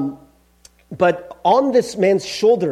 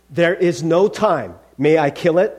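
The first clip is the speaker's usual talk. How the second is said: insistent angel; 4 dB louder than usual. Acted. Angel pressing the ghost to decide, insistent. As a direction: press the point with deliberate weight.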